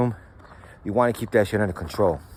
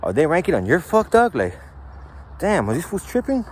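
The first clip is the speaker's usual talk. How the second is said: questioning; 3 semitones higher than usual. Retold or imitated. Leader innocently questioning a youngster, mock curious. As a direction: plant the idea with a question. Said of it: "You're just questioning".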